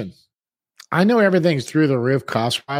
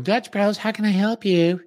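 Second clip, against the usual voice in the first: higher mock barista greeting; drive-thru worker voice; 5 semitones higher than usual. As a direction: imitate the voice from the speaker box. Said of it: "I can hear him in the background going".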